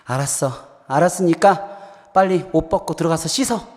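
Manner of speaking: giving in after a sigh; lightly voiced mom who has given up; a touch of weary surrender; resigned mother. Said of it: "한숨을 푹 쉬더니 도저히 못 당했다는 듯이".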